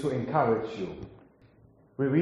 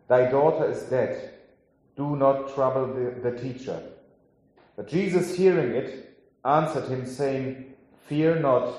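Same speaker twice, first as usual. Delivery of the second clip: scripture reading. Acted. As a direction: read the passage as scripture to the congregation. Reads the Gospel passage aloud.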